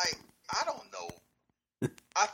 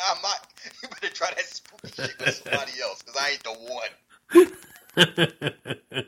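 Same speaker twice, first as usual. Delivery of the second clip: wrestling promo; 3 semitones higher, 4 dB louder than usual. Retold or imitated. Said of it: "imagine him cutting a promo on Raw".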